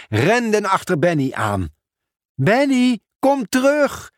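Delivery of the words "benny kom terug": higher calling voice after the bird. Acted. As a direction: call him back across the café. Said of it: "riep Pieter Post". (hoger roepen om Benny terug te halen)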